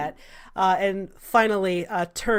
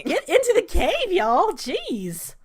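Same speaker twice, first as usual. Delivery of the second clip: exasperated call; 11 semitones higher, slower than usual. Acted. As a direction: shoo them into the cave. Salvador herding them.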